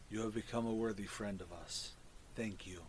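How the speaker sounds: low, soft fungal creature voice; hushed low mushroom speech. Acted. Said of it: "this is my mushroom voice for everybody".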